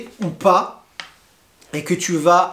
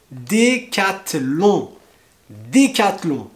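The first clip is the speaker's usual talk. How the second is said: slow model; slower than usual. Shown as a demonstration. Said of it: "slow model".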